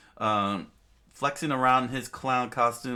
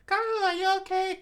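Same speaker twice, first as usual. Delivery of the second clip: high-pitched, raised-voice cry; alarmed call; 4 dB louder than usual. A narrator's reading. Vivi tending to drunken Karu, crying out. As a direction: call out urgently to a friend.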